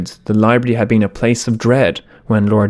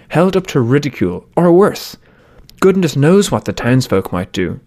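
Cook's raised voice; 4 semitones higher than usual. Acted. Cook speaking, raised tone.

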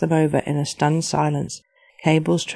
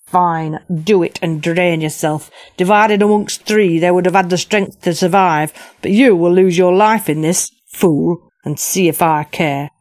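shaking with anger; 4 dB louder than usual. Acted. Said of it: "quivering with anger".

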